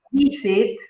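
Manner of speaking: VIsit, with the first syllable stressed. Shown as a demonstration. Teacher answering a student's doubt, visit stressed on the first syllable. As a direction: lean on the VI in visit. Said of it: "recae en la primera sílaba".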